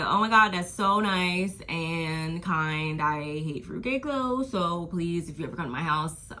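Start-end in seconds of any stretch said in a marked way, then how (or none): 0.0-3.0 fake gushing. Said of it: "I was like".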